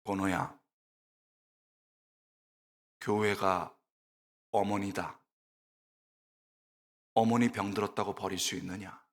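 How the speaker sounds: low, quiet, solemn divine voice; hushed and deep, with long weighty pauses; God. Retold or imitated. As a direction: speak as a grave voice from heaven. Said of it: "딱 한마디 하셨습니다".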